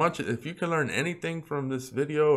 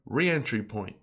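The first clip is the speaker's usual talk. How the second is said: ordinary talk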